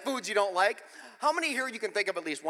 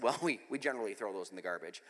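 careful reply; 12 semitones lower, 9 dB quieter than usual. Retold or imitated. Retelling careful reply to mom.

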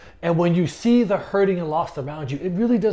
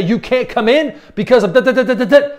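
louder, raised-pitch rattled-off excuses; mock gatekeeping; 4 semitones higher, 6 dB louder than usual. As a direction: parody someone listing petty rules. Mimics people excluding others.

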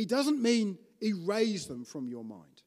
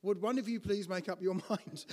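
exasperated joking aside, laughing. Pretend. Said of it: "I might have said".

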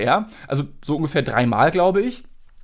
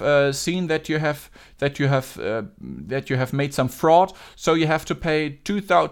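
put-on Indian accent; 2 semitones higher than usual. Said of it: "den indischen Akzent".

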